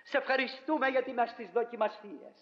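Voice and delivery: earnest, measured prayer voice; preacher leading the congregation in a closing prayer. Acted.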